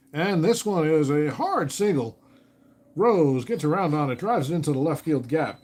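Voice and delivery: excited radio baseball call; play-by-play call. Acted. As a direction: build the hit like a live broadcaster.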